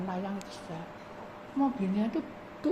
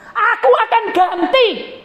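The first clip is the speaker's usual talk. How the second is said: high, loud, slow booming promise; God promising to replace the car; 16 dB louder, slower than usual. Acted. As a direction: declare it slowly like God. God's promise voiced.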